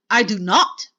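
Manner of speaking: loud, emphatic witch's denial; shouted. A narrator's reading. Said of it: "shouted the Grand High Witch".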